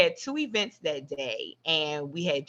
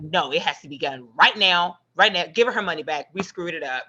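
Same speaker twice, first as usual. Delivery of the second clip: urgent, louder, pushing hard on right now; panicky insistence; 4 dB louder than usual. Retold or imitated. Partner imitating her own panic to the group, pressing and urgent. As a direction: play the panicky one demanding it gets fixed immediately. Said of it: "I'm always like".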